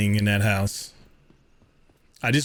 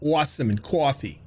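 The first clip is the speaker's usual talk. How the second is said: "Awesome and coffee" laughed through, a New York accent with a chuckle; laughing repeat; 3 semitones higher than usual. Shown as a demonstration. Laughing as he repeats his two New York words, a New York accent. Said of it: "Lost all my New York accent except for two words".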